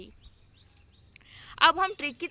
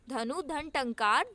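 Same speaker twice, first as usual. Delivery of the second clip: slow repeat; slower than usual. Shown as a demonstration. Teacher repeats the split for students, slow and rising. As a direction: say धनु धन टंकार again, slowly, rising on टंकार. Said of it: "धनुष टंकार".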